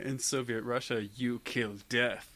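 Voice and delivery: a hint of slow meme delivery; deadpan, dragging the punchline; Soviet Russia meme. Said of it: "that old meme".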